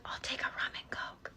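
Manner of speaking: flirty whispered drink order; soft, voiceless, intimate order; whisper in the ear. Shown as a demonstration. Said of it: "Is whispering in their ear".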